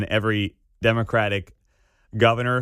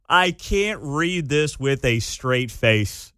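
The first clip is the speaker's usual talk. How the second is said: slow deadpan; slower than usual. Real, not acted.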